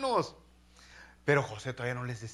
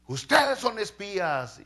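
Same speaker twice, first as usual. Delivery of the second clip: slow, harsh and higher, like a hostile official; rude accusation; 5 semitones higher, 6 dB louder, slower than usual. Retold or imitated. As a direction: spit out the charge at the brothers. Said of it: "les habla bien gacho, grosero".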